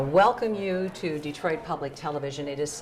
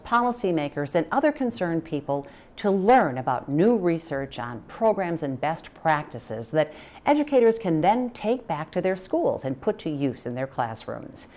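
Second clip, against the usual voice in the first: measured TV reporter's read; news report. Real, not acted. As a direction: present it like a public television report. Presenter reads scripted report introduction.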